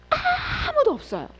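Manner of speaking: tearful cry. Real, not acted. Emotional peak of sermon.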